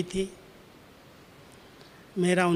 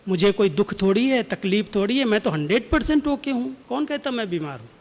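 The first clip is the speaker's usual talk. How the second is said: insistent. Retold or imitated. Dadi insisting she is fine.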